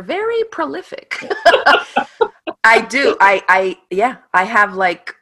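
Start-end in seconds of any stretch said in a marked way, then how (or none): 0.0-1.1 high, laughing quote of a teacher; high mock voice. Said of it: "she's like". 1.1-2.6 high, breathy laugh. Real, not acted. Laughs after quote.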